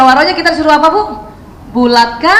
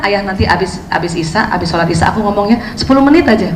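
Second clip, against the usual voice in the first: gentle request; 4 semitones lower than usual. Shown as a demonstration. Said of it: "kita bilang".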